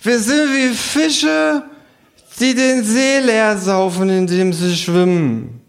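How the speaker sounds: high, slow, drawn-out kangaroo voice; a cocky kangaroo philosophising, slowly. Acted. Kangaroo lectures the bar, high and slow. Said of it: "sagt das Känguru".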